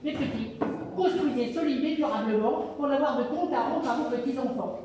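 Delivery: a hint of a caring mother, quiet; mother pig advising. Mother pig counsels her piglets, softly. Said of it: "Leur maman leur dit en conseil d'amis".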